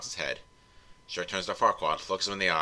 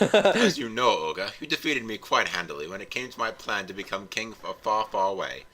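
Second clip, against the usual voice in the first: Scottish Farquaad; 2 semitones higher than usual. Acted. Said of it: "I wanna hear your Scottish Farquaad".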